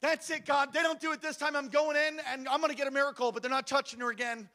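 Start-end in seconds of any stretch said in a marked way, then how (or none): 0.0-3.3 determined inner vow. Retold or imitated. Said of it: "I've said in my head".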